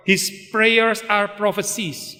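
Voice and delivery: slow, solemn and set apart; quoting Spurgeon slowly. Retold or imitated. Preacher quotes Spurgeon to the church, slow and solemn. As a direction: let each word land like a prophecy. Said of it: "menurut Spurgeon".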